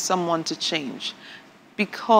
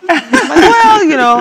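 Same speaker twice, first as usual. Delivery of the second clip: playful retort; 11 semitones higher, 11 dB louder than usual. Retold or imitated. Wife answers her husband's comedy jibe, high playful retort. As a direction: toss back a teasing comeback.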